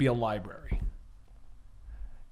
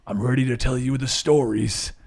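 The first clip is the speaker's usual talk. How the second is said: a lightly voiced old man, a bit lower; elderly Bruce Wayne; 4 semitones lower than usual. Elderly Bruce speaking to a young girl as an old man. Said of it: "Why does Bruce sound like that?".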